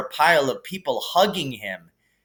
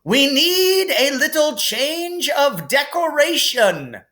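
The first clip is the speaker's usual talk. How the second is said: higher, raised headmaster voice over cheering; calling over applause; 13 semitones higher, 4 dB louder than usual. Acted. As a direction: call out over the celebrating hall. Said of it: "Dumbledore called over the storm".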